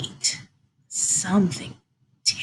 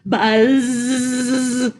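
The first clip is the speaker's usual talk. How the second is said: fly's cry. Acted. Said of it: "The fly cried".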